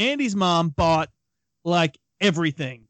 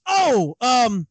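higher, hesitant voice, badly faking being ill; unconvincing fake sick kid; 7 semitones higher, slower than usual. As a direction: stammer it out like a kid caught lying, slowed down. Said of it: "Did not sell it super well".

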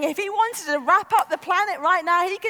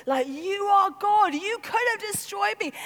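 awed alarm; 5 semitones higher than usual. Acted. Jacob awestruck, raised pitch.

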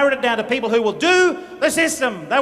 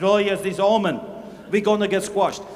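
mock doom; 3 semitones lower than usual. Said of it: "And he said".

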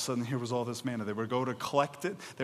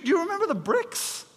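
incredulous; 3 dB louder, faster than usual. Acted. Reminding Israelites of slavery.

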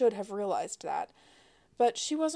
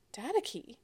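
a light squeak on Data key, higher; squeaky; 4 semitones higher than usual. A narrator's reading. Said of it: "Sloane squeaked".

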